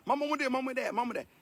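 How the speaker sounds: lightly mimicked begging kid; a hint of a child nagging mama; pestering child. Child harassing mama for things, mildly pestering. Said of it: "how children harass their mamas".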